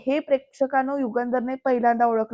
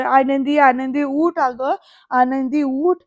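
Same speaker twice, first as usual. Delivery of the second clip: loud, slow calling of her name; 4 dB louder, slower than usual. Retold or imitated. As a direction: call her to wake up, drawn out. Retelling family calling unconscious Anandi. (मोठ्याने हाक मारत, हळू)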